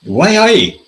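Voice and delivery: playful Geordie voice, both words drawn out; Geordie accent. Retold or imitated. Hartlepool voter on the radio, mock Geordie accent. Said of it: "This is me doing a, a north and eastern".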